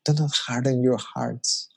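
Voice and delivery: gentle, tender plea; loving voice of God. Shown as a demonstration. God lovingly pleading with Marcos, tender. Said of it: "if you can hear that in that tone".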